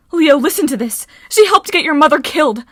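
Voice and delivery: loud, high, desperate appeal; urgent outcry. A narrator's reading. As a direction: cry out to get through to a friend. Piper urgently warns Leo against Medea.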